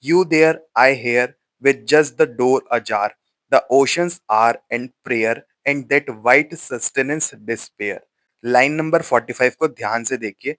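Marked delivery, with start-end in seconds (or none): 0.1-8.0 slow, measured reading of the stanza, each phrase set apart; poem recitation. Acted. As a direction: read it out like a solemn poem, lingering on each word. (धीमी, ठहरी हुई कविता-पाठ की आवाज़)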